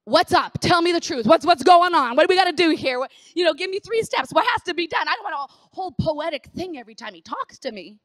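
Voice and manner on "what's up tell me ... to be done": blunt demand. Retold or imitated. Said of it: "I'm like".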